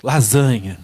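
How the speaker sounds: hammed-up greedy yell; mock shout. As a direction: bark it like a craving. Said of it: "você escuta o grito".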